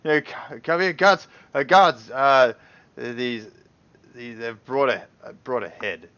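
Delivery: stammering alarm, waving for help; panicked call. Acted. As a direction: Ander calling the guards in a panic. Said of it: "motioning for the other guards".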